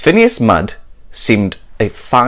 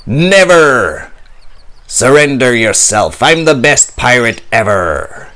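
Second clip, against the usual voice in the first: roar. Acted. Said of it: "Redbeard roared".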